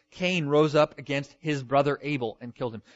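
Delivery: "brother" punched loudly within the verse; stress on brother. Shown as a demonstration. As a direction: lean hard on "brother". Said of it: "they're quite emphatic and intentional".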